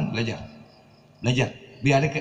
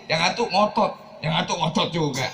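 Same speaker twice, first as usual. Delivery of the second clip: slightly raised, insistent pitch; mild stubborn insistence; 3 semitones higher than usual. Shown as a demonstration. Preacher shows a couple both refusing to budge, insistent. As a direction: push it a little, both sides digging in. Demo of two stubborn spouses.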